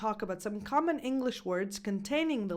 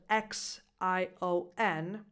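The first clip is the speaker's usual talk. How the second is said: spelling out; slower than usual. Shown as a demonstration. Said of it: "words that end with this sound".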